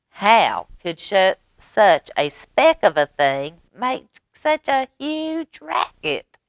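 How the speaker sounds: astonished. A narrator's reading. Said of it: "asked the bear".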